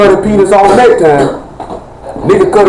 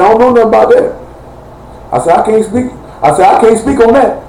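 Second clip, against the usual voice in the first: higher-pitched retold denial; evasive denial; 5 semitones higher than usual. Telling friends he can't speak on a rumor, evasive. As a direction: play it coy, pitched up, refusing to comment. Acts out dodging friend's question.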